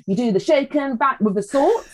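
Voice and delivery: imitating a sister's playful chant; cheeky older sister. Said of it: "she's really cheeky".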